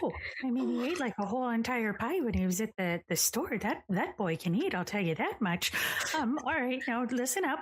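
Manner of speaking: granny rallying. Acted. Granny rallying, brave pep talk.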